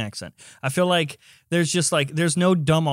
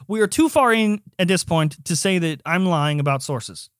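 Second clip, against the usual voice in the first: heated, higher-pitched protest; worked up; 4 semitones higher than usual. Real, not acted. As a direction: argue your innocence, getting worked up. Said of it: "You need to cool down".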